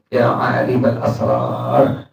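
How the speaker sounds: drawn-out, slow plea to God; slow pleading call. Retold or imitated. Pious man calling on God, a slow earnest plea. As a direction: call on God slowly, from the heart. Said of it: "Terus diulang-ulang sama dia".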